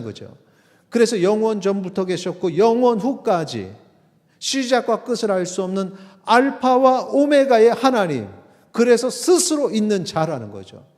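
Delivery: high, loud sermon delivery; full-force preaching. Real, not acted.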